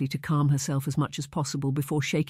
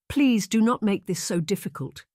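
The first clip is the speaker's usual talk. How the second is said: put-on higher, pleading young woman's plea; 6 semitones higher than usual. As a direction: beg him not to make it harder, voice lifted. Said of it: "she pleaded".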